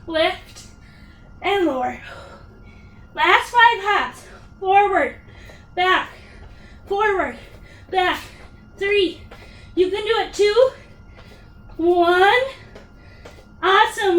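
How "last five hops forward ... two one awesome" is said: pumped-up coaching. Real, not acted. Coach pushing final hops.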